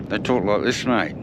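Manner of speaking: mock Australian mumble; Australian accent. Shown as a demonstration. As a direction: talk Australian with a barely open mouth. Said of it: "You know why Australians".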